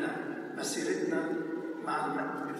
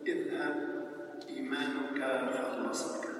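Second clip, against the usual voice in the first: solemn Gospel proclamation. A narrator's reading. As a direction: proclaim the Gospel to the congregation, unhurried. Proclaims the Gospel before the homily. (تلاوة الإنجيل بوقار وتمهّل)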